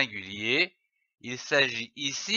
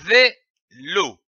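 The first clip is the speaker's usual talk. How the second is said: slow blended word; slower than usual. Shown as a demonstration. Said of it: "L'association de ces syllabes donne le".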